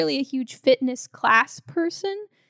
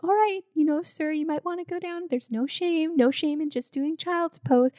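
higher, sweetly calm instructor voice; calm yoga instructor; 5 semitones higher than usual. Retold or imitated. A hint of a calm yoga teacher. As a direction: stay sweetly calm while needling him. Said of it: "she's still just maintaining this calm voice".

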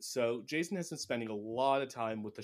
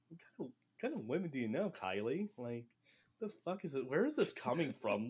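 incredulous; 3 semitones higher than usual. Retold or imitated. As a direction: throw it back in disbelief. Matt baffled by Kylie's offer.

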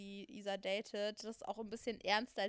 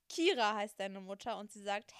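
ordinary delivery

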